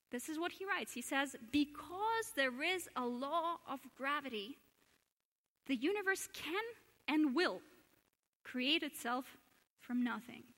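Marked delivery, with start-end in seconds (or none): 1.5-10.4 slow deliberate reading. Shown as a demonstration. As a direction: read the Irish-free quote slowly, with pauses. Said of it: "Shall I read it again?".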